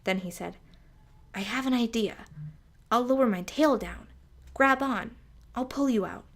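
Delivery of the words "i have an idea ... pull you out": a lightly voiced boy, louder and keen; young snake's eager voice. A narrator's reading. Young snake calling down to trapped mouse, keen. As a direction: pitch it up a bit, offering help brightly.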